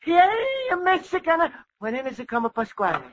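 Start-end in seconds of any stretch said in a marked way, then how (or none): 0.0-1.5 high cheer that stays moderate; mild mock holler; practice holler. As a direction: rehearse the cheer to himself. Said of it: "practicing a hollering".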